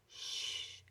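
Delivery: whispered sharp shush; scolding shush. Acted. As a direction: hush your friend in the audience. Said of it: "Mole scolded".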